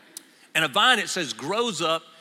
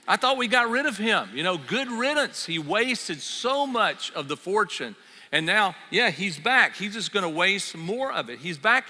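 higher, louder grumbling big brother; resentful brother; 3 semitones higher, 3 dB louder than usual. Acted. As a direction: complain like the jealous older son. Older brother voiced, resentful.

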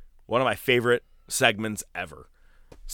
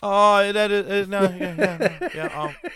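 flustered realisation; 10 semitones higher, 5 dB louder than usual. Real, not acted. Realises mistake about date.

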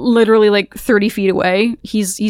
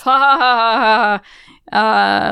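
mock villain laugh; slower than usual. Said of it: "he starts laughing to himself".

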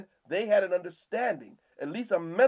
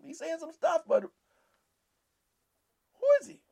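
mocking townsfolk; 8 semitones higher than usual. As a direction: drag out the scornful question. Voicing scornful townspeople.

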